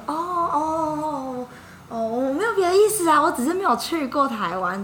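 imitating a flustered colleague, high and loud; flustered backpedal. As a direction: panicky oh oh, covering yourself.

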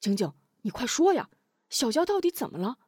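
fast, pressing questions; anxious hurry; urgent asking. Acted. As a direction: rush her to answer. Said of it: "急问".

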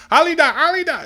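high, loud panicked call for a daughter; shrill-pitched, urgent summons. Acted. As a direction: cry the name out at the top of the range. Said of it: "she starts calling her daughter".

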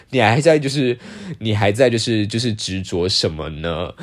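mocking whiny excuse. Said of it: "然后结果你生气以后就说".

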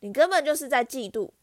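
loud high indignant cry; shrill shout. Acted. Small boy shouting at the bully to defend Harry, high loud cry. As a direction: shout it back in his hero's defense. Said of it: "科林尖声喊道".

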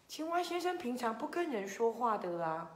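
usual speaking voice

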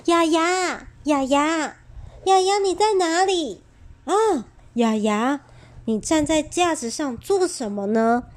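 calling out. Acted. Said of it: "他不停地喊着".

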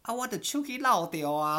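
put-on high, slow, laughing old lady voice; laughing grandma impression. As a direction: mimic the grandma while cracking up. (边笑边学阿嬷慢慢说)

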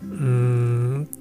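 ordinary talk, nothing marked

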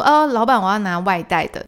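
loud call of "老板"; calling out to the owner. Retold or imitated. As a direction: call out over the counter.

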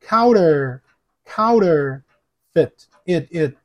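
"counterfeit" slowly split into "counter" and short "it"; teacher sounding out "counterfeit" piece by piece; syllable breakdown. Shown as a demonstration. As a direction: break "counterfeit" apart, isolating the "it". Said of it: "要注意哦".

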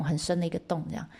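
usual speaking voice

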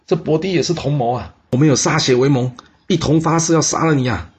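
high, loud desperate yell; condemned man yelling in a panic; shouting. Acted. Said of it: "这吕医生大叫说".

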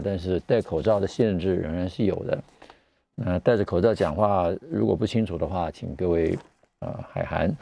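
muffled behind a mask; talking through a mask; through a face mask. Real, not acted.

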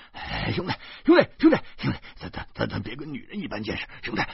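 hurried, stammering peacemaker; placating. Acted. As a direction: talk a friend down, repeating the address nervously. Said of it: "劝解说". (急忙结结巴巴地劝解)

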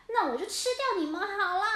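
fast, gleeful threat; menacing orca. Acted. Orca turning on the cats, gleeful threat. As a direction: relish the idea of eating them.

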